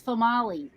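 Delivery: "Famali" said fuh-MAH-lee; unexpected name pronunciation. Shown as a demonstration. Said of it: "But it was spelled female".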